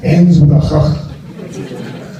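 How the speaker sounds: "ch" as a long, voiceless throat rasp; hugely drawn-out throaty "ch"; guttural Dutch ch. Shown as a demonstration. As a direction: scrape out the final "ch" very slowly. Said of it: "a very Dutch word".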